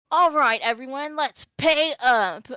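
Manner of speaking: loud, slow, gloating call to the table; smug Dragonborn. Acted. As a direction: draw it out as a winner collecting. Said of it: "and he goes".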